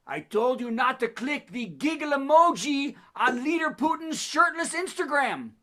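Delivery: a hint of a Russian cosmonaut muttering; lightly voiced Russian grumble; Russian accent. Cosmonauts grumbling to each other, mild Russian accent. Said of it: "How did Dracula get on this space station?".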